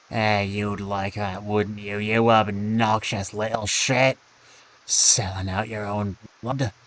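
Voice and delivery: put-on scornful father in a half Russian, half Scottish accent; angry father, mixed Russian-Scottish accent. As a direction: sneer it in a muddled Russian-Scots accent. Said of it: "halfway in between a Russian and a Scotsman".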